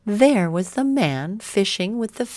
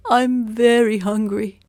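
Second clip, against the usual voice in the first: high, louder pleading voice; hungry beggar; 6 semitones higher, 6 dB louder than usual. A narrator's reading. Hungry man tells Zheng, high and loud. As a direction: cry out your hunger.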